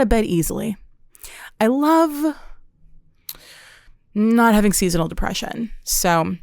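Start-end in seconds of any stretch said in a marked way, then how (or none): 1.6-2.4 sudden breathy whisper, higher; whispered aside. Acted. Listing summer joys to listeners, a whispered aside. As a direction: drop to a secret whisper on the words.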